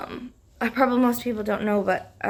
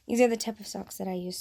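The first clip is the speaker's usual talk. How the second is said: rough just-woke-up morning voice; faster than usual. Real, not acted. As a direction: talk in a groggy morning voice. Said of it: "Sorry about my morning voice".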